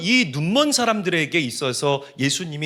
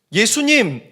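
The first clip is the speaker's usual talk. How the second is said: high, loud desperate call; crying out; 11 semitones higher, 10 dB louder than usual. Acted. Blind men calling to Jesus for healing, crying out. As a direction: cry out to be heard by Jesus. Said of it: "이 맹인들이 소리 질렀대요".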